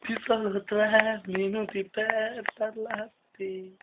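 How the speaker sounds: slow, theatrical spoken lyrics; dramatic recitation. Pretend. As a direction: recite it like a tragic poem.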